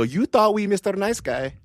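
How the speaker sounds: high, loud put-on tough-guy accent of no real country; mock tough accent. Canadians flexing at Americans, in a made-up tough accent. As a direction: ham up a made-up gangster accent. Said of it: "I don't know what accent that was".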